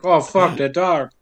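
belated realization. Acted. Stabbed man notices what he felt earlier, understated realization. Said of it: "like, say".

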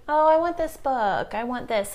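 a hint of a little girl's voice; lightly voiced kid. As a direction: flit from want to want like a kid. Voicing her distracted kid.

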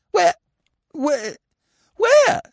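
broken, stammered question climbing high; faltering, rising to a squeak; gurgled disbelief. A narrator's reading. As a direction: gasp it out, deflated and stunned. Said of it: "she gurgled".

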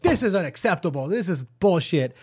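a hint of a demanding Karen; lightly played Karen; Karen complaint. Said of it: "gone more Karen".

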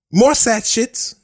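high, slow, hammed-up sad whine; mock sad. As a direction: whine it in fake sorrow. Mock-sad segment intro.

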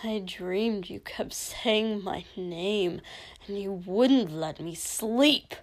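slow, resentful, building venom; understated, seething accusation; venomous spitting. Acted. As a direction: spit out the grievance, hardening toward the end. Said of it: "Dobby spat, suddenly venomous".

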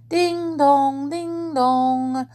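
high, sung-out clock chime; chiming clock voice. A narrator's reading. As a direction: ring it out like a bell, each note held. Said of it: "said a voice softly".

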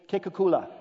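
"Kekukula" as one joined word, "keh" first; first pronunciation. Shown as a demonstration. Preacher leading the room in repeating it, "Kekukula" said as a joined word. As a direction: model "Kekukula" for repeating, ending on "la". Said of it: "say that".

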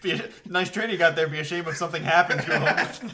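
laughing mock gangster; lightly voiced mob shakedown; mock mobster threat.

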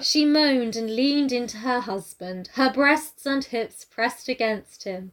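slow, measured preacher's delivery; mock sermon reading. Imitating audiobook narrator to co-host, slow sermon-like reading. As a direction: read the love scene like a solemn sermon. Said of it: "read it like a fucking sermon".

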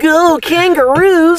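high, drawn-out Australian accent. Shown as a demonstration. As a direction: whoop it slowly in mock Australian. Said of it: "I can do a fucking mean Australian accent".

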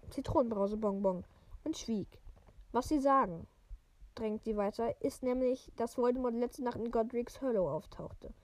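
even, measured read-aloud voice; story narration. A narrator's reading. Podcaster reading a wizard novel to listeners, story narration.

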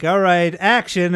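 loud director's call on set; director calling action. Retold or imitated. Director calling the shot, loud. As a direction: bark it like a film director. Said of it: "he would go like".

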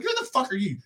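high mocking jab; mock heckle. Imitating a wrestler mocking Billy Gunn. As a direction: sneer it like a wrestler trash-talking. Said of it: "He was like".

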